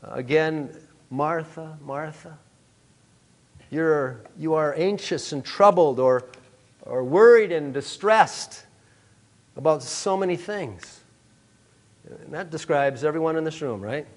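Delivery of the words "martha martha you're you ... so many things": gentle rebuke. Acted. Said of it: "very graciously, I think very lovingly, but it was a gentle rebuke".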